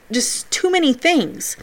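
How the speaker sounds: breathy whisper, trailing off. Real, not acted. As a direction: let the thought fade to a whisper. Overwhelmed, trailing off in thought.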